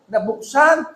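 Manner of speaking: usual speaking voice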